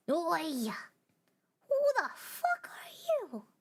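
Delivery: high, loud startled shout; startled call. Acted. The little star shouting at the strange new voice, startled. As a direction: blurt it out, startled. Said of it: "said the little star curiously".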